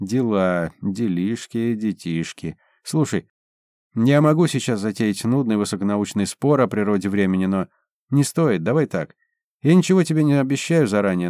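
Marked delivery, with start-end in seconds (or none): none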